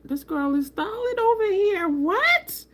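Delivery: high-pitched hyped-up disbelief; retold amazement. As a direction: squeal it like an amazed fan. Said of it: "I was just like".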